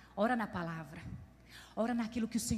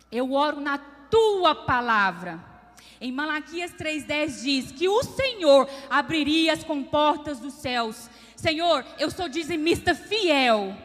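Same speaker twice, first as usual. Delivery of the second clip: husband's prayer; 2 semitones higher, 6 dB louder, much slower than usual. Retold or imitated. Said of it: "E ele foi e começou".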